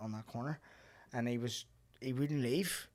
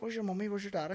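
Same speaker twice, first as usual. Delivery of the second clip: put-on higher voice, talking to a little child; lilting, pitched-up questions to a small kid; imitating concerned old ladies; 8 semitones higher than usual. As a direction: mimic old ladies questioning a lost toddler.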